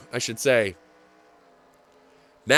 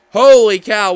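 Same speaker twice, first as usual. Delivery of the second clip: amazed exclamation; 8 dB louder than usual. Real, not acted. Finish exclamation.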